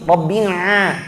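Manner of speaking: Rabbil A pushed through the nose, slow; teacher demos the nasal mistake; nasal a, wrong. Shown as a demonstration. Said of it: "Ada yang baca dari hidung".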